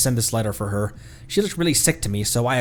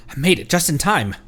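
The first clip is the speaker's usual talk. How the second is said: ordinary delivery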